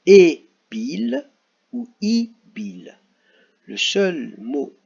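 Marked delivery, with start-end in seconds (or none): 0.1-1.3 loud, higher rising try on E bill; trying out an option. Shown as a demonstration. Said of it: "Est-ce qu'on va écrire". 1.7-3.0 higher, slow questioning I bill; slow rising test of I bill; trying out an option. Shown as a demonstration. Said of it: "Est-ce qu'on va écrire".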